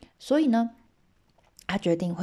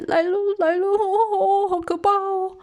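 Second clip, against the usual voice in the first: high, loud mock-terrified wail; hammed-up panic as the monster arrives; trembling with fear; 13 semitones higher, 7 dB louder than usual. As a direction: cry out scared, way up high. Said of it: "老夫妻，呃，抖得更厉害".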